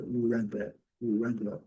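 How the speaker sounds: "Wrangler" led in by a rounded "u"; pouted retroflex R. Shown as a demonstration. Teacher showing learners Wrangler, lips rounded before R. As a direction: pout into the R of "Wrangler", W silent. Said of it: "faz aquele biquinho e pronuncia".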